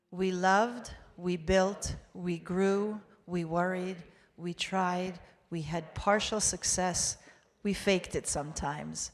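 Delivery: measured litany in short, separate phrases; congregational recitation. Real, not acted. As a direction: lead a group reading, steady and even. Leads congregation reading English confession.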